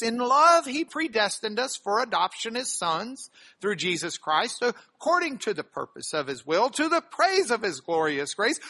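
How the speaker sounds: measured reading of the passage to the congregation; scripture reading. Acted. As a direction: read it out like a text from the pulpit. Pastor reads scripture aloud.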